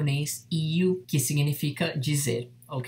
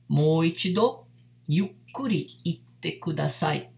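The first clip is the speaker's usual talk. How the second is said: slow model phrase. Shown as a demonstration. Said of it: "como você diria".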